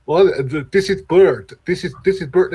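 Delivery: lightly mocking imitation of a horrible Russian accent; bad Russian accent. Podcaster mocking an actor's horrible Russian accent, bad Russian accent. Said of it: "doing the horrible Russian accent".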